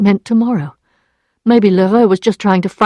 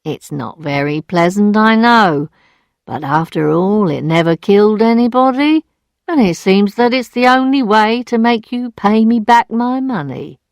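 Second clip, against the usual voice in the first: sweetly; 2 semitones higher than usual. Acted. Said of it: "saying sweetly".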